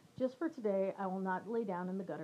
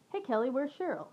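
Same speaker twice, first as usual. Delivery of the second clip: lightly chirpy, raised pitch; bright greeting; 5 semitones higher than usual. Retold or imitated. Second acquaintance asks after Cheryl, mildly bright. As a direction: ask it brightly, a touch sing-out. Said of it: "She said brightly".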